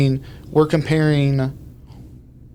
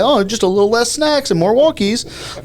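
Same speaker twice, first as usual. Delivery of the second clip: higher, faster cutesy pet talk; little dog voice; 9 semitones higher than usual. Retold or imitated. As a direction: coo it like talking to a puppy. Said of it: "talked in a little dog voice".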